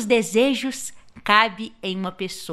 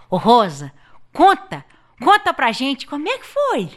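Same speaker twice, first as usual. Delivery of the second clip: eager call; 3 semitones higher, 4 dB louder than usual. Acted. Calling Rosa to tell.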